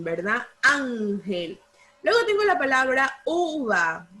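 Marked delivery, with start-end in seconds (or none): 0.6-1.6 "Ángel" with the AN drawn out and leaned on; stress on first syllable. Shown as a demonstration. Teacher shows class the tonic syllable, "Ángel" stressed on AN. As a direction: hit AN in "Ángel", let gel drop. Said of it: "¿Cuál es la sílaba tónica?".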